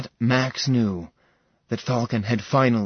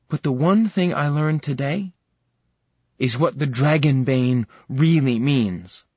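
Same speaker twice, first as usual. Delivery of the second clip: eager insistence; 4 semitones higher, 4 dB louder than usual. Acted. Sarah insists on bonding.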